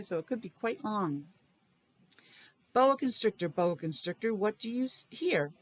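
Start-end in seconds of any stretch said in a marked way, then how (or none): 2.7-5.5 put-on reading to children. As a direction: read the title like a picture book for little kids. Reads book to class.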